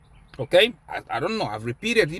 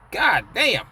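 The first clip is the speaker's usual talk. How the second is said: mock exclamation; 3 semitones higher than usual. Uncle exclaims in story.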